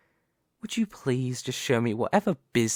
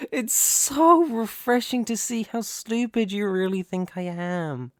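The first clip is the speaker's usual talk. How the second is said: sneering; 8 semitones higher than usual. Acted. Villain sneers at the rival.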